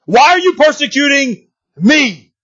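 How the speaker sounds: slow question, "me" held long and falling; stress on ME. Retold or imitated. Preacher corrects the misreadings, weight on "me". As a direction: draw out "persecuting", then land on "me". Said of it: "None of that".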